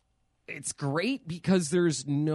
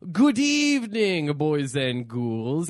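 spooky host; 5 dB louder, slower than usual. Acted.

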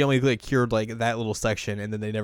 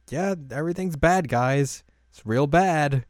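raised, higher comic report of trouble; mock yelling; 4 semitones higher, 3 dB louder, slower than usual. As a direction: call it in urgently, half-jokingly. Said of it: "basically just yelling at their communicators".

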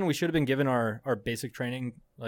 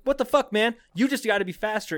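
exasperated; 7 semitones higher, 3 dB louder than usual. Retold or imitated. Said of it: "I was like".

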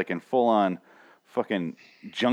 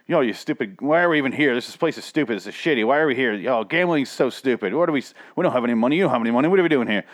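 mock angry husband; 3 semitones higher, faster than usual. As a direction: whine at the wife like a fed-up old man. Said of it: "they argued the whole time".

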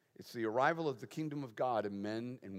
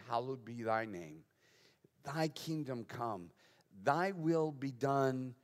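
soft, measured praying voice; prayer recitation; 3 dB quieter than usual. Acted. Preacher showing how Jesus taught us to pray, soft prayer recitation. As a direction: recite it reverently, softly, phrase by phrase.

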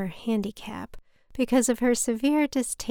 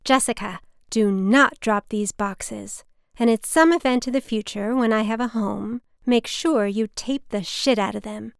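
reading the mother's sign on her boxes; mother's bossy note; 4 dB louder than usual. Retold or imitated. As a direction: bark out orders like the mother. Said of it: "written in black Sharpie".

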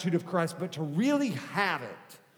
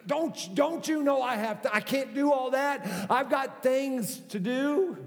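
higher, put-upon complaining; mock an irritated husband brushing off his wife; annoyed spouse; 5 semitones higher than usual. Preacher imitates a spouse snapping at their partner, exasperated. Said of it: "We tend to get upset".

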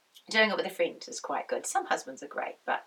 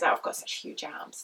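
whiny quote; 9 semitones lower than usual. Retold or imitated. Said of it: "they say".

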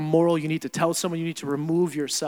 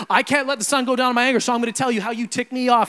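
mock self-righteous caller; 6 semitones higher, 5 dB louder, faster than usual. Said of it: "be like".

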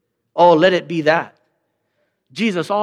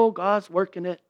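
pastoral brush-off; 6 dB quieter than usual. Retold or imitated. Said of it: "So I want to go".

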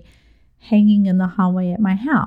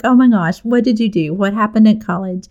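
retold panic; 3 dB louder than usual. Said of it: "I'm freaking out and I'm like".

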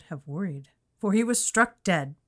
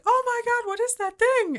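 mock horror; 4 dB louder than usual. Friend mocks the colonel's shock.

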